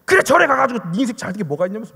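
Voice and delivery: mild mock telling-off in Busan dialect; imitated Busan scolding. Evangelist scolding a non-believer, mock Busan telling-off. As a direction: tell them off, Busan style, as retold. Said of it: "막 혼을 내고 막 부산 사투리로 막".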